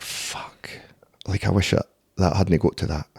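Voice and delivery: hushed whisper of regret. Retold or imitated. Whispering regret to himself after a fight. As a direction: breathe it out as a whispered curse. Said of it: "I'm like".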